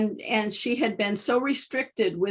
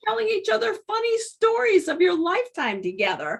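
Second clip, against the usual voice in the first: retold advice; 8 semitones higher than usual.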